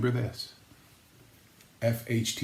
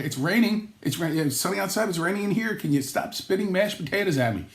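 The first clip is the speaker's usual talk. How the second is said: higher-pitched comic protest; mock exasperation; 5 semitones higher than usual. Guest spat on by close talker, mock exasperated. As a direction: complain in mock disbelief. Acted complaint to a spit talker.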